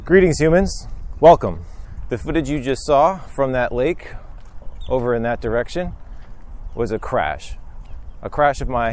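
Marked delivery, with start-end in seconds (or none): 0.0-4.1 high, stiff computer voice; old speech synthesizer. Pretend. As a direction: greet like a vintage robot. Robot-like greeting to viewers.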